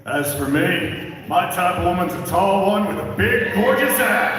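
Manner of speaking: building to a shouted gorgeous ass; character line. Retold or imitated. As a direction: start cool and measured, shout the ending. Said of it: "my favorite line is probably".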